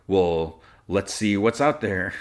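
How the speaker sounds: slow, mildly resigned retold line; sighing. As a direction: imitate a reluctant sigh as you give in. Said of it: "So Lois sighs".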